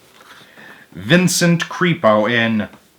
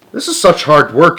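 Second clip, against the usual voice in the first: huffing and puffing; 6 semitones higher, 4 dB louder than usual. A narrator's reading. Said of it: "huffing and puffing".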